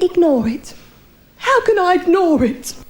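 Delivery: incredulous echo in a changed voice; husband repeating the doctor's advice, outraged; indignant husband. Retold or imitated. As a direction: throw the word back in disbelief.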